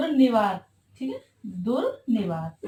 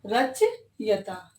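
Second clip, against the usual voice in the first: slow dictation; much slower than usual. Shown as a demonstration. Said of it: "very, very important".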